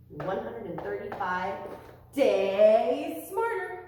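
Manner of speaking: slow, loud "days smarter"; proud announcement. Shown as a demonstration. Announcing the day count.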